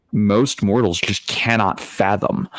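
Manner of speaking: ordinary talk, nothing marked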